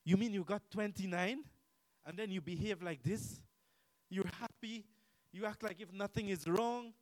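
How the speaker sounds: mock disbelief, emphatic and questioning; imitated astonishment. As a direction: act out a friend's wide-eyed incredulity. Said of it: "Her eyes opened big like this".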